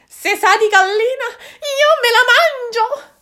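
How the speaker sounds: a greedy fox scheming; sly fox. Acted. Fox schemes to eat the moon, in a high sly voice.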